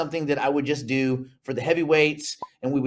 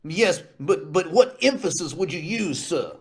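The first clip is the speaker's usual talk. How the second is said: lightly voiced questioning judge; mock-courtroom probing, judge accent. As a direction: press on as a hammy judge. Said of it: "What would your judge accent be".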